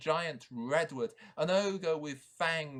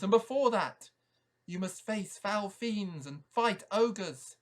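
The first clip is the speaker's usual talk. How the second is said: higher, louder owl giving instructions; wise owl voice; 6 semitones higher, 5 dB louder than usual. Acted. Owl telling the knight the quest, raised owl voice. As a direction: speak as the owl guiding the knight.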